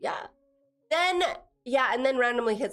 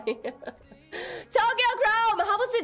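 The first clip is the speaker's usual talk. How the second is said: Tokyo Chrome and how drawn out high and slow in a teasing singsong; 10 semitones higher, much slower than usual. Acted. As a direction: stretch the name out, nosy and playful. Teasing a viewer about a date.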